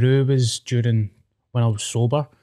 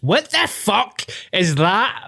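put-on shocked girlfriend; 7 semitones higher, slower than usual. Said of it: "and it was just".

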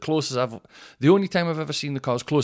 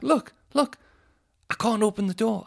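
high whining mock old woman; whiny old lady; 12 semitones higher than usual. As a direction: whine it like a helpless old lady. Old lady voiced in anecdote.

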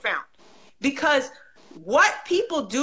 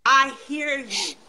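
tender reassurance; slower than usual. Shown as a demonstration. Voicing Allah's reassurance, repeated slowly.

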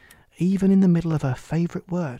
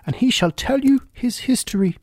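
higher, louder imperious queen; bossy queen voice; 8 semitones higher, 4 dB louder than usual. Acted.

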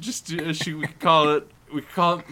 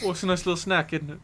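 higher mock-Cockney film star; Michael Caine; 4 semitones higher, faster than usual. Playing the actor reviewing a snack, mock-Cockney. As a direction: lightly ham up an English actor. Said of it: "I'll just do that for every episode".

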